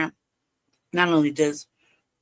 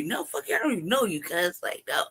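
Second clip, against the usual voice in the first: defiant retort; 4 dB quieter than usual. Retold or imitated. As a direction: brush them off sharply, with a jump up in pitch. Retorting to classmates recruiting her.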